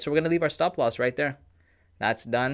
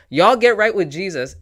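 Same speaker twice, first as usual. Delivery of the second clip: mock preacher; 9 semitones higher, 8 dB louder than usual. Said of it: "he said".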